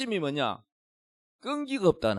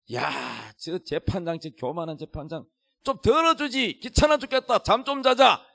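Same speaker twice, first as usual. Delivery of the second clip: complaining neighbours. Acted. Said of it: "재판장을 욕을 합니다".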